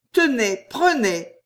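cajoling, sweet; coaxing and sweet. A narrator's reading. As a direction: sweetly press it on them. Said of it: "câline et douce".

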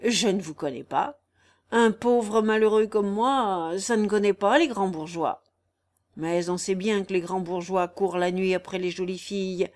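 lightly voiced crafty old countryman; sly vagabond. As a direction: toy with the listeners in a mild rustic character. Raguet, prudent vagabond, hints slyly.

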